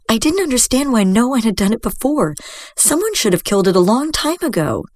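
plead, defending yourself; pleading young girl. Acted. Girl pleads her case.

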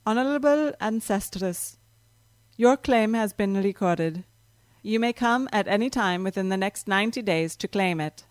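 a hint of a reedy, hollow clerk voice; formal clerk, lightly voiced and otherworldly; strange reedy voice. Temple clerk records Rachel's claim, a hint of reedy formality. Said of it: "said the strange, reedy voice".

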